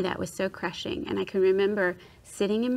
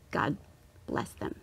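grudging blessing; 5 semitones lower, 8 dB quieter than usual. Retold or imitated. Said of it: "It was gritted teeth".

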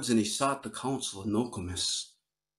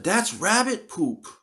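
disgusted complaint; 8 semitones higher, slower than usual. Retold or imitated. Boy recoils from the berries.

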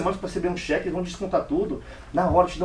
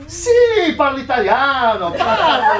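much higher and louder, with a nervous laugh; nervous lie; 7 semitones higher, 10 dB louder, much slower than usual. Acted. Lies nervously to the manager. (mentindo ao gerente, riso nervoso e agudo)

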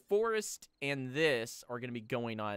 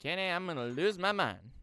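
higher, louder cry of frustration; exasperated complaint; 6 semitones higher, 5 dB louder than usual. Real, not acted. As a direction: call out your frustration to a friend. Repeats the complaint to co-player.

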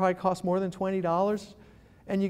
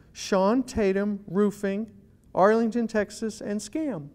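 slow search demo; slower than usual. Shown as a demonstration. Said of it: "all you gotta do is do this".

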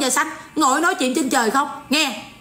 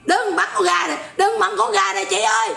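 put-on a girl begging, pitched higher; young girl pleading; 4 semitones higher than usual. The girl begs the poultry seller to spare the chicken, in a higher pleading voice. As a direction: beg like a little girl saving her chicken. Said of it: "Con nhỏ nó sẽ nói vậy nè".

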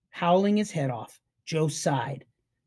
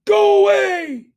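urgent go away; 8 dB louder, slower than usual. Acted. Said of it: "Then he mouthed".

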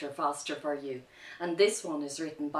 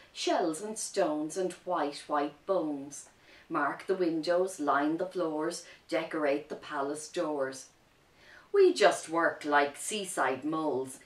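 poem reading. Acted. Reads a poem to children.

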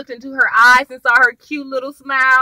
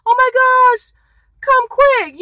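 much higher mock panicked plea; 12 semitones higher, 4 dB louder, slower than usual. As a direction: ham up a frantic call for help. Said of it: "supposed to be like".

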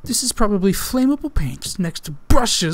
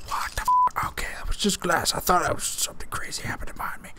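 quick, hushed whisper; rattled whisper; 6 dB quieter, faster than usual. Real, not acted. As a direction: whisper it fast, under your breath. Rattled by a noise behind.

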